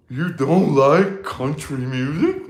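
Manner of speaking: slow, drawn-out mock disbelief; incredulous question. Others reacting to his dislike of country, mock incredulous. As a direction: stretch it out as if you can't believe it.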